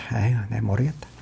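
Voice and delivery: low, soft, worn-out groan of giving up; weary sigh. Real, not acted. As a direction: sigh it out, exhausted. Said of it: "화가 좀 많이 났습니다". (지쳐서 낮게 한숨 쉬며)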